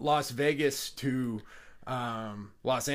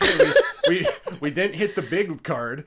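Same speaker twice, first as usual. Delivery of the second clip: laughing; 2 semitones higher, 6 dB louder than usual. Retold or imitated. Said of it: "So I'm like".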